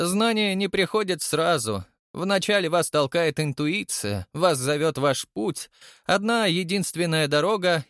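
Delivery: lightly voiced, high, measured pronouncement; solemn prophetess. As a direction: reveal his destiny with mild solemnity. Ариадна вещает о судьбе. (торжественно, высоко и размеренно)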